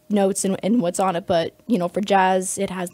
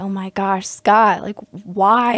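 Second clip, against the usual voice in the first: retold exasperation, punching the name louder; mildly exasperated plea, louder on the last words; mock frustration; 5 dB louder, slower than usual. Student retelling her protest to her piano mentor, frustrated. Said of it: "I get so frustrated".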